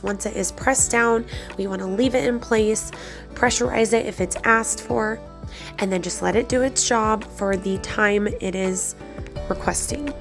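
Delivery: breathy and congested from a cold. Real, not acted. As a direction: talk through a stuffy, breathy cold. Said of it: "If I sound really breathy or congested".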